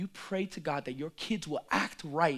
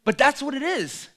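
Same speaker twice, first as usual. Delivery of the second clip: laughing; 9 semitones higher, 10 dB louder than usual. Real, not acted. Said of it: "my voice cracked".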